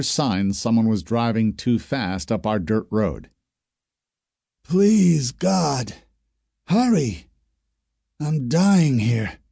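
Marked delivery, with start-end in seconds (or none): 4.6-9.4 slow, high, pleading moan to God; burned man crying out for help. Acted. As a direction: beg heaven to hurry up. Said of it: "Lonnie cried".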